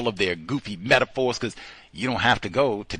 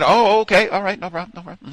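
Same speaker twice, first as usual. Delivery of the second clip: TSA agent reply; 7 semitones higher, 3 dB louder than usual. Retold or imitated. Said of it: "TSA agent answering politely".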